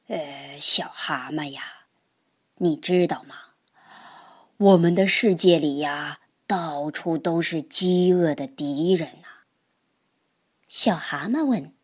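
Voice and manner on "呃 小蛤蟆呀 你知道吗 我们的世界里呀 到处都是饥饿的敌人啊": lightly voiced old grandpa, lower and hushed; a wise old toad confiding to his grandson. Grandpa warns little toad. (爷爷对小蛤蟆低声讲道理)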